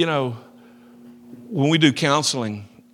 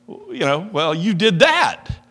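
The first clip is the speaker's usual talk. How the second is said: slow, drawn-out accusing tone; imitating the argument, stretched out; mock accusing; 5 semitones higher, 4 dB louder, slower than usual. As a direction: lay the blame on slowly. Retold argument with Paula.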